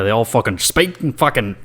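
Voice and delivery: put-on botched Irish accent, coming out British; failed Irish accent. Host trying Irish for his co-host, failed Irish accent. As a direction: have a hopeless go at an Irish accent. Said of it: "I can't do an Irish accent right now".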